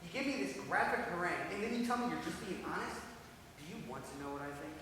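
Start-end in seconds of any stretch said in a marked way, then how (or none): 0.1-3.0 angry. Acted. Acted quarrel.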